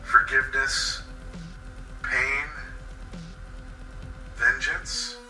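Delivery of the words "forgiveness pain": plain reading voice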